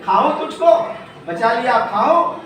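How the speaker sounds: mock greedy question; hungry cat. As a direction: tease the bird before eating. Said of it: "बिल्ली पूछी". (लालची बिल्ली का सवाल)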